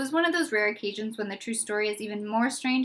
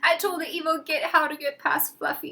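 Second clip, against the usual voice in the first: tearful; 6 semitones higher than usual. Acted. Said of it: "he sobbed".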